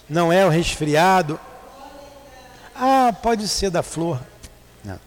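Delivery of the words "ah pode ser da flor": ordinary talk, nothing marked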